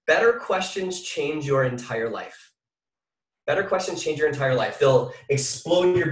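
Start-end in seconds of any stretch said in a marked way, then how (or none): 0.1-2.5 slow dictation. Shown as a demonstration. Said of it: "Write this down".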